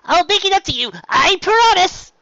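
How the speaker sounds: high, loud call, slowing at the end; loud parting promise. Acted. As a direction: shout it back as you run. Calling back while leaving.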